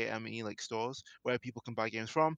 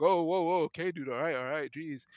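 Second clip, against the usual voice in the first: startled backing off; 4 semitones higher, 4 dB louder than usual. Retold or imitated. Cashier throws hands up, startled.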